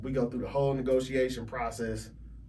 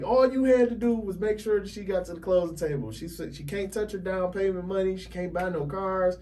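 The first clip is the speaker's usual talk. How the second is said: retold scolding; 6 semitones higher than usual. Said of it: "He cussed me out".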